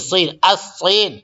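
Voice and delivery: صین said slowly with a clear s, then الصین as asin; slow classroom model of صین and الصین; Arabic pronunciation. Shown as a demonstration. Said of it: "چین کو عربی میں صین بولتے ہیں".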